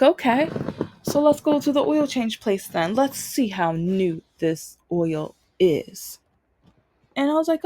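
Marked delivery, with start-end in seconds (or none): 0.0-6.2 mock challenge. Dad daring daughter to prove the oil change, mock challenge. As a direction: lightly imitate a dad calling a bluff, slowing right down at the end.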